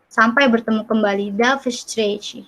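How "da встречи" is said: "Da встречи" said slowly and softly; teacher repeating for the class; slow Russian demo. Shown as a demonstration.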